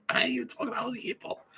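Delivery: very high, slow, squeaky mock confusion; mock innocent bafflement. Taunting the upset table with high, slow fake confusion.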